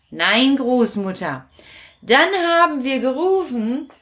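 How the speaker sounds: put-on bright high puppet boy telling his trick; Kasperl, excited. Kasperl boasting to Großmutter, excited and high. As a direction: rattle it off, thrilled. Kasperl tells apple story.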